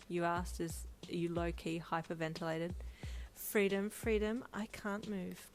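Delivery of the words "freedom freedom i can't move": gently. Acted. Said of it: "Brian said gently".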